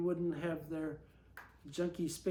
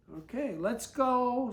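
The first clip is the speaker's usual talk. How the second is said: yelled; 6 semitones higher, 4 dB louder, slower than usual. Acted. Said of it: "Susie yelled".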